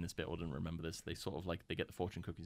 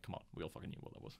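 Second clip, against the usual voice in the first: mock exasperated aside; 7 dB quieter, faster than usual. Mocking characters' obvious shock.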